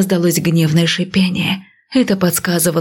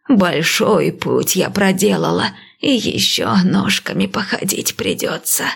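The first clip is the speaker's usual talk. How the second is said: slow, lightly voiced old priestess; calm old seer, unhurried; old woman voice.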